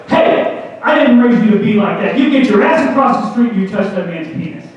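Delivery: acted stern dad telling-off; forceful scolding, starting with a sharp "Hey"; upset, confrontational. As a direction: get in his face, mock-angry. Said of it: "I was upset. I got in his face".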